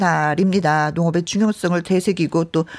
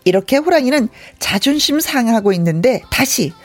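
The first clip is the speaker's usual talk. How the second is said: measured folk-tale storytelling; story narration. A narrator's reading. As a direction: tell it like an old tale, pausing for effect. Narrates between acted parts. (옛날이야기 들려주듯)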